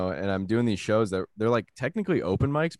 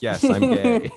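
hammed-up declaration; 13 semitones higher, 7 dB louder, slower than usual. Answer to customs officer.

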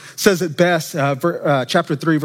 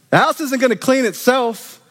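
higher, frantic Martha voice; Martha's panic; 6 semitones higher than usual. Shown as a demonstration. Preacher voicing Martha's frantic worry, higher. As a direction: play Martha fretting before Jesus comes.

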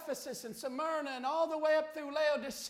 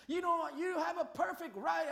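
higher-pitched imitation of a nasty retort; retold nasty talk; 5 semitones higher than usual. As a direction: mildly mimic her nasty talk. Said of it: "goes on to talk real nasty".

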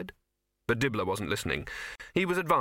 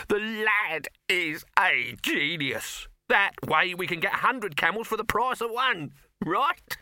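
high-pitched, delighted proclamation; elated showman; 8 semitones higher, 3 dB louder, slower than usual. A narrator's reading. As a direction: crow over the brilliant idea in a raised pitch.

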